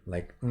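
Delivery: soft sustained hum; hummed nasal. Shown as a demonstration. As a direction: hum it through the nose. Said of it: "produce a continuous velar N".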